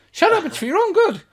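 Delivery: high, loud angry yell; angry shout. Acted. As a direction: bark back furiously through the door. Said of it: "And another voice goes".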